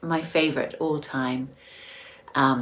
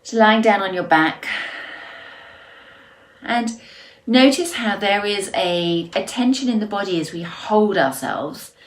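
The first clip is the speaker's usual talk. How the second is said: unhurried guiding voice with long pauses; guided relaxation; 3 dB louder than usual. Real, not acted.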